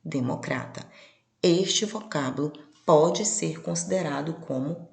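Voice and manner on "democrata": democrata stressed on CRA, quiet; Portuguese stress. Shown as a demonstration. Teacher repeating the Portuguese democrata, stress on CRA. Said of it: "Na língua portuguesa".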